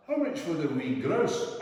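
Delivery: a hint of a grand lady enquiring; voicing the Scottish lady.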